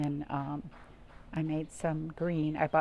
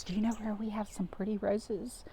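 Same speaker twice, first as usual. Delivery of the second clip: whisper; 3 semitones higher, 5 dB quieter than usual. Real, not acted. Storyteller asks children.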